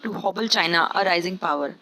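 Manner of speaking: very slow, deliberate reading; slow dictation pace; slow example read. Shown as a demonstration. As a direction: spell it out slowly for students. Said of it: "sentence में मैंने इस तरीके से इस्तेमाल किया है".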